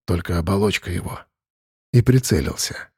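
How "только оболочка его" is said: low, soft whisper; hushed. A narrator's reading. Arkhip warning quietly, hushed and low. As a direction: keep it under breath.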